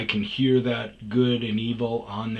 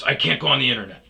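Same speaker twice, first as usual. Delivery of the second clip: client; 3 semitones higher, 6 dB louder, faster than usual. Retold or imitated. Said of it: "this guy goes".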